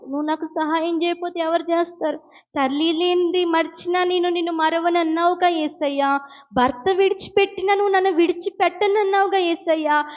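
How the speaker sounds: pleading prayer, a touch of crying; tearful prayer. Retold or imitated. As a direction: beg Jesus through mild tears. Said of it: "ఏడుస్తానే ఉంది". (ఏడుస్తూ వేడుకునే ప్రార్థన)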